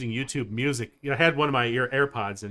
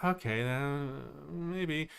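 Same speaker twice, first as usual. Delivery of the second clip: quiet; 8 dB quieter, much slower than usual. Retold or imitated. Retold hesitant thought.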